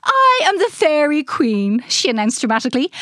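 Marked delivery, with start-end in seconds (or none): 0.0-1.8 slow, lightly airy grand proclamation; a hint of a theatrical fairy queen. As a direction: announce yourself like a gracious fairy monarch. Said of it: "speaking in an airy voice".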